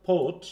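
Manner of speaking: thought starting like "ph", with a puff of air; aspirated first consonant. Shown as a demonstration. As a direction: aspirate the opening sound of thought. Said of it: "ফ sound আসছে".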